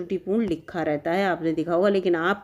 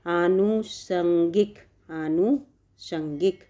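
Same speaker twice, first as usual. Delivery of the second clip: slow careful spelling-out; much slower than usual. Shown as a demonstration. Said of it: "इस तरह से ये सही है".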